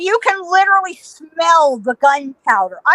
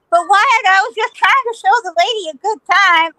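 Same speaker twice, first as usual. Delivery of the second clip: high, pleading mock protest; whiny excuse; 5 semitones higher than usual. Ike excusing himself to Wyatt, high mock protest. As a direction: imitate a man making excuses, pitched up.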